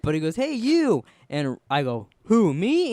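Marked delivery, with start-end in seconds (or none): 0.4-1.0 high, loud imitated hail; retold yell. Biker calls to the boy down the street, high retold yell. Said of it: "He yelled at me". 2.3-2.9 high, loud mock surprise; startled question. Boy answers the biker's call, startled retold question.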